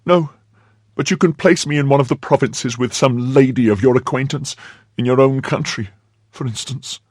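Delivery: high, eager maid's voice; pleading maid Kitty. A narrator's reading. Maid asking to be placed in the provinces, high pleading. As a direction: press the request in a high voice.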